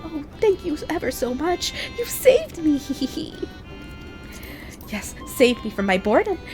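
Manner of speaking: high, teasing fairy voice; a light, giggly sprite talking down to a mortal; playful pixie voice. Acted. Reads pixie NPC dialogue aloud.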